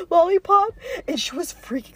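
laughing. Real, not acted. Telling a funny memory, laughing. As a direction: crack up on the word.

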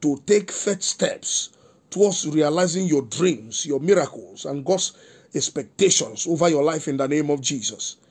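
measured, solemn prophetic declaration; prophetic prayer. Acted. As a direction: pronounce a blessing over the listeners like a prophet. Pastor prophesies over listeners.

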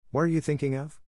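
fierce demand, pitched high. A narrator's reading. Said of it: "she demanded".

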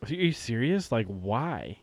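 mildly scornful quoted questioning; mocking disbelief. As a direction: retell her mock disbelief, dropping at the end. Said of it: "she was making fun of him".

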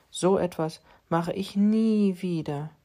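slow, a touch rueful cat voice; rueful vow. Acted. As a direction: drag it out like a regretful tomcat. Cat's resolution.

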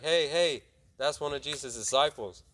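lightly acted accusing call; retold calling out. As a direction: mildly imitate someone spotting and pointing out a suspect. Accusers spotting Peter, calling out.

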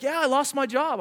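a bright high carefree line; imitating the laid-off man sounding happy; cheerful, upbeat. Jobless man cheerfully tells the pastor his news, high and bright. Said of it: "he's, like, all happy".

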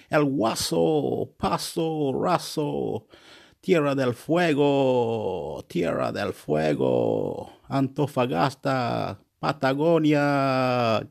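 slow, playful roll-call of places; drawn-out place names. Pretend. Vlogger reeling off South American place names, slow and drawn-out. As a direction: stretch each name out slowly, savouring the vowels.

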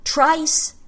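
high, loud cry of the name; shouted. A narrator's reading. Neva crying out at her enemy, loud shout. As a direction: fling the name out in rage. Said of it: "I shouted".

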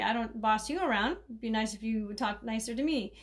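gentle, calm request to a bossy patient; said nicely. Shown as a demonstration. Caregiver calmly asking a bossy patient to talk nicer, gently. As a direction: ask it kindly, no edge. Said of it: "you could say it nicely".

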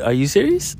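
high, loud, incredulous question; amazed. Retold or imitated. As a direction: squeal it in happy disbelief. Reacts to his proposal.

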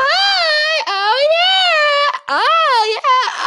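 loud dopey drive-thru guy voice; dipto impression. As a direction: play the dopey fast-food worker. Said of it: "Peppa has got the dipto's voice down completely".

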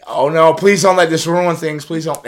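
high, slow worried plea; playing his own panic, high and drawn out; mock pleading. Telling the host how he begged it not to ruin things, high and pleading.

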